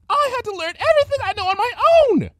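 fast, loud, high tirade; fast angry rant. Acted. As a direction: rattle off the grievance furiously. Rarity ranting.

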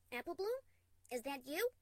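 high, loud nervous calling; frightened call. Acted. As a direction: call out, shaking with fear.

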